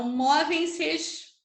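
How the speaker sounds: MOVEM-SE ES- slowed, SE and ES fused as one; syllables run together. Shown as a demonstration. Teacher showing students the joined syllable, run together. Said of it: "falei junto".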